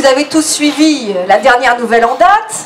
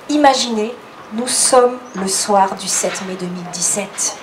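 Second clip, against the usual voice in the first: flight attendant voice. Pretend. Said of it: "Je vais prendre ma voix d'hôtesse de l'air".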